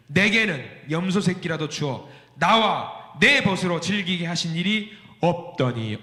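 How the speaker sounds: slow, measured scripture read. Acted. Preacher reading the verse to the congregation, slow and measured. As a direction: read the verse slowly and deliberately.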